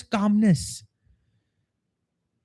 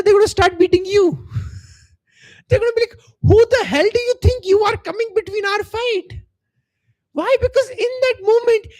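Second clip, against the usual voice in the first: laughing high and loud; 10 semitones higher, 4 dB louder than usual. Real, not acted. Coach laughing at the funny road rage scene. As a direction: voice pitched up high, laughing as he speaks. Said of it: "a very funny scene to imagine".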